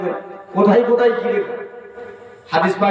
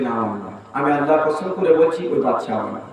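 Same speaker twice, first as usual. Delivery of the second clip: low, subdued sworn denial; firm denial; 3 semitones lower than usual. Retold or imitated. Woman swearing to Ali the child isn't hers, low and firm. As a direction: drop the voice low and deny it.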